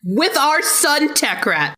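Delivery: talking through a mouthful of taco; words round a bite of food, slow; mouth full. Real, not acted. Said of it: "Sorry, I had a taco in my mouth".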